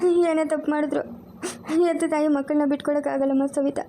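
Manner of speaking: crying. Acted. Mother tells Savitha she can't give up her daughter, crying. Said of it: "ಅಳ್ಬೇಡ್ರಿ ಅಖಿಲಮ್ಮ".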